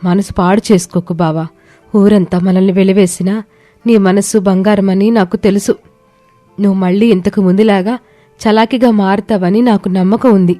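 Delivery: lightly voiced, comforting wife; consoling wife. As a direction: gently reassure an ailing husband. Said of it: "ఓదార్చసాగింది".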